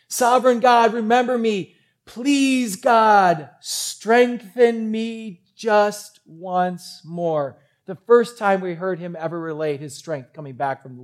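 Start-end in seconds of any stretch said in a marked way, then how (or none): 0.1-7.6 high, loud, urgent appeal to God; pleading prayer. Acted. Humiliated Samson begs God for strength, urgent plea. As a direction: cry out, then draw the last words out. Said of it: "he prays this prayer".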